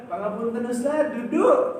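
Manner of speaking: polite reminder. Retold or imitated. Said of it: "dia ingat".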